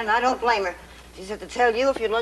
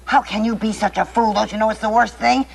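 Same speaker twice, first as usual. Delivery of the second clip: ordinary delivery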